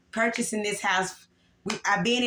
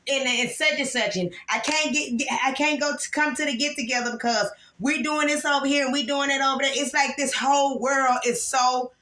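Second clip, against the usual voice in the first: rising frustration; 4 semitones higher than usual. Real, not acted. Venting about family, rising.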